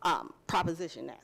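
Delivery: slight lisp from wearing retainers. Real, not acted. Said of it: "I'm lisping here all over the place".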